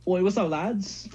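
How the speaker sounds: slow, mock British "Oi, what's up, lads?"; imitating a British accent. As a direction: greet mates like a cheeky Brit, slowly. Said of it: "he's got the accent".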